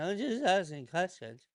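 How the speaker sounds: put-on voice with a faux-innocent lilt; Candace Owens impression. Doing Candace Owens for his audience, faux-innocent put-on voice. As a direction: play it as a sly just-curious question. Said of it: "I'm gonna do my best Candace Owens impression".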